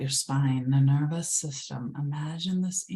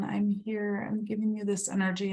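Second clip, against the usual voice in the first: Mother Earth soothing, pitched higher and breathy at first; 4 semitones higher than usual. Pretend. Mother Earth reassuring the listener, higher tender voice. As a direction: speak as the nurturing earth itself. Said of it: "And it's saying".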